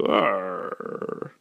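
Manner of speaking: drawn-out monster gurgle; trailing cartoon death groan; bubbles' dying growl. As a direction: groan like a monster going down the drain. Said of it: "the bubbles go".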